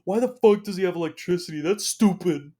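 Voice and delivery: loud, high, indignant scoff; mock a friend griping out loud; loud friend in theater. Friend complaining in the theater, loud and high. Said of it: "one of them being like".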